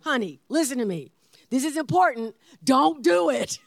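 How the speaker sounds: emphatic demo, firmly punching "Don't do it"; clear, straight warning. Shown as a demonstration. Wife showing husband how to warn her, clear and straight. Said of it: "I say it clearly, I say it real straight".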